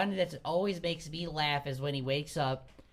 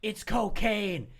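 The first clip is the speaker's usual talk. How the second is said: high, emphatic mock sales pitch, building louder; retold drummer; 6 semitones higher, 6 dB louder than usual. Imitating drummer pitching the drug, high and building louder. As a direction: stretch the first words, then build to loud. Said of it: "He's like".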